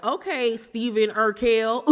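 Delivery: teasing name-call; mocking laugh. Real, not acted. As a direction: roast him while laughing. Mocking the husband's looks.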